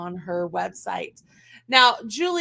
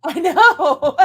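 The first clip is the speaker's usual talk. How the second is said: louder laugh breaking through; 6 semitones higher, 11 dB louder than usual. Real, not acted. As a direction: burst out laughing. Laughing at the joke.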